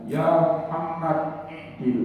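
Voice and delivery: mild mock yell from afar; half-shouted call. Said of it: "dari jauh dia teriak".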